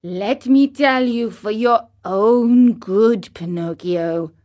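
the cricket counselling Pinocchio calmly. Acted. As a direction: speak calmly and kindly. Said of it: "in his calm voice".

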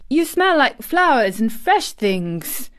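joyous cry. Acted. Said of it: "he cried out quite joyously".

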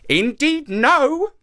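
high-pitched protest. A narrator's reading. Monkey refuses to go back for his heart, protesting. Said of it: "protested Kima".

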